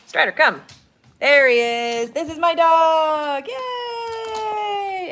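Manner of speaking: triumphant yelling as the dog arrives; loud excited dog call. Real, not acted. Dog finally comes.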